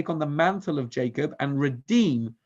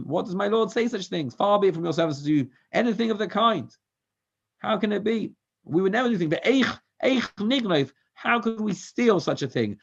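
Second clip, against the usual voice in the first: indignant protest; 5 semitones higher than usual. Acted. Brothers protest innocence to steward.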